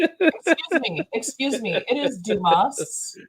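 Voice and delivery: slow, high mock-offended correction; indignant posh GPS voice insisting on Dumas; haughty correction. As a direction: lift your nose and correct the name slowly. Snooty GPS correcting pronunciation.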